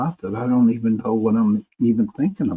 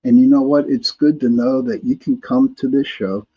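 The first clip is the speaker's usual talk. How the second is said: ordinary talk, nothing marked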